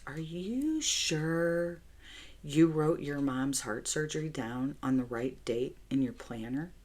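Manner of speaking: imitating husband's mock gaslighting doubt; Patrick's doubtful tone. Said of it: "And this is the tone Patrick used".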